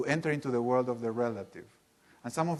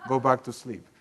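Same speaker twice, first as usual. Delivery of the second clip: mocking Ken, laughing. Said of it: "if you're Ken".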